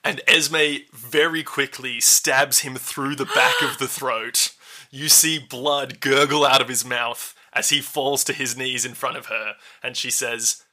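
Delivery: slow, deliberate scene setting; game master narration. Acted. Game master describes a killing to players, slow narration. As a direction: draw out the grim action slowly.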